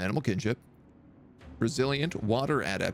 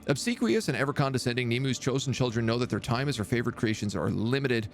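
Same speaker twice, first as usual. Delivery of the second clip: lore reading. Acted. Reads faction lore aloud.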